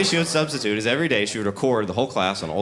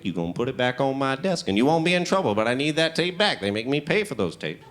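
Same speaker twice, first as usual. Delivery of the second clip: put-on old teacher, cross; 4 dB quieter than usual. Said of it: "She got real mad".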